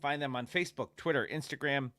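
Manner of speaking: talking through the hiccups; hiccuping ad read. Real, not acted. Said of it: "now all of a sudden I have the hiccups".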